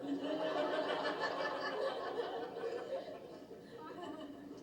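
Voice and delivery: long high wheezing laugh. Real, not acted. Preacher laughing hard at the story, long laugh. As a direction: let the laugh run on.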